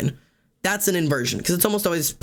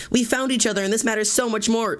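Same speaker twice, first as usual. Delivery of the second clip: high, earnest soap-opera declaration; hammed-up emotional reunion speech; melodramatic heartfelt line; 6 semitones higher than usual. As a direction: gush it like a teary drama heroine. Melodramatic found-family dialogue acted out.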